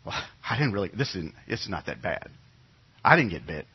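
low, soft self-convincing mumble; mock denial. Bitten Israelite quietly denying the bite. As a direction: talk yourself out of it quietly. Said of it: "convince themselves they haven't been bitten".

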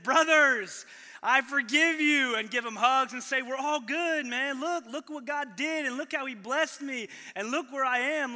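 loud, high, open-hearted pretend Joseph; pretend Joseph forgiving. Pastor voices Joseph forgiving brothers.

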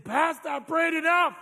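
a listener telling the pastor they prayed enough; protesting listener. Retold or imitated. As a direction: push back at the pastor. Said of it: "You're saying".

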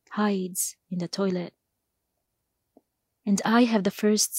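measured poem recital in short, paused phrases; deliberate spoken-verse delivery with weighted pauses; poetry reading. Acted. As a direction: recite it line by line, letting each image land. Reads own poem before interview.

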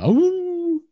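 a high yelp of a dog; dog bark. Acted. Bloodhound barking at Clive. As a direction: yip like a startled hound. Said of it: "kind of barks and makes".

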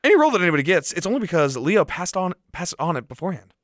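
a hint of a smug yuppie; lightly voiced Bale yuppie. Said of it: "There's the yuppie voice".

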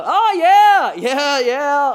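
loud, high, over-eager yeah; fake enthusiasm. Clueless person humouring an unknown caller, fake enthusiasm. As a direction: bluff hearty recognition.

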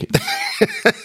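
sudden high burst of laughter; a real laugh breaking out. Real, not acted. Recalling the funny T-shirt.

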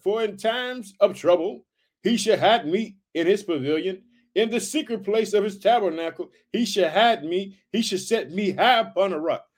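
scripture reading. Acted. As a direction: read the verse out with weight. Rereads verse five.

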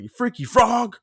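high loud jeer; mocking taunt. To the roommate: high loud jeering insult.

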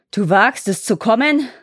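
lightly thundering forest lord; a hint of a booming challenge. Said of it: "rief er mit donnernder Stimme".

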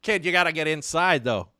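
put-on Boston local; Boston accent. Friend playing a local at Fenway, mock Boston accent. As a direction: urge him along in mock Boston. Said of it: "kill it with Boston".

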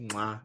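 spoken "mwah" kiss sound; kiss noise. Shown as a demonstration. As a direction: make a soft, smacking mwah. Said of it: "that's a weird noise in the ears".

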